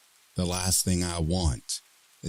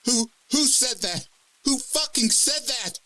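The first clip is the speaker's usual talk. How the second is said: panicked anger. Acted. Fear turning to anger.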